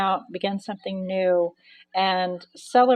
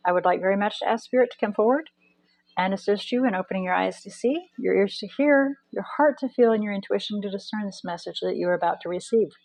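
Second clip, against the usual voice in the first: yawning and short of breath; yawning between words, catching breath; faster than usual. Real, not acted. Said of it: "I do apologize for the yawning".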